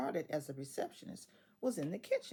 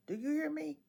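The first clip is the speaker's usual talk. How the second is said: usual speaking voice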